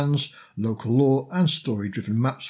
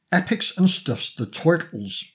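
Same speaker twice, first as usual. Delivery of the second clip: put-on New York accent; 5 semitones higher than usual. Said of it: "say it in a New York accent".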